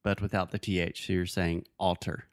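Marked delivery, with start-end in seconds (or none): 1.1-2.2 altar said with an aw vowel; aw sound. Shown as a demonstration. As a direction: say altar with aw at the start. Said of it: "that's actually the aw sound".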